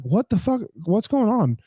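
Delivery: high, alarmed what-the-hell; startled. Retold or imitated. Getting into the car amid screaming, high startled. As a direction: jump up in confusion. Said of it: "I'm like".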